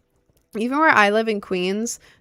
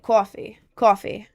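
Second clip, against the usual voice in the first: "coffee" with a light New York vowel; just a hint of New York on "coffee"; slight New York accent. Shown as a demonstration. Showing the milder bit, slight New York accent. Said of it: "or just, like, slightly".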